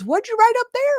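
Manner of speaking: high-pitched mock surprise, imitating a client; startled question. Client spots what coach wrote on the whiteboard, startled question. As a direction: retell her suddenly puzzled, rising question.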